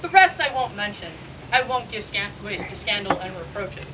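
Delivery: lightly voiced tragic prophetess, measured phrases; prophesying Cassandra. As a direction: foretell his troubles in theatrical verse delivery. Monologue that is done by Cassandra.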